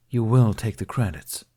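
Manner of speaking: insistent. Acted. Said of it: "Ben insisted".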